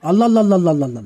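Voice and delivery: mock admiration.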